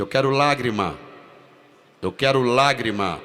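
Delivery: loud, insistent director's demand; a strict director yelling for tears; demanding shout. Retold or imitated. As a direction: bark the order for tears.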